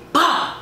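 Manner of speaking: high "bah" punch noise; imitated punch sound. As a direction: voice the smack of a hit.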